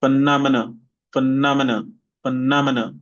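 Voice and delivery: phenomena with stress on -nom-; stress demo. Shown as a demonstration. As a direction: say it clearly for the class to repeat. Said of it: "Sorry, this is for".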